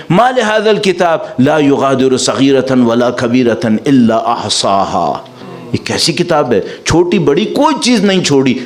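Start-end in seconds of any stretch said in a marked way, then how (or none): 0.1-5.1 slow, drawn-out chanted Arabic verse; measured Quran recitation inside a sermon; Quranic recitation. Acted. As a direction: recite it slowly, stretching the last words. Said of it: "تو چلا کے کہیں گے".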